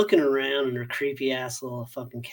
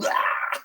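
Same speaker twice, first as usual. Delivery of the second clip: imitated scream. Describing the creepy cabin scene, mock scream. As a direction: imitate her screaming without full force. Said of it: "like, screaming".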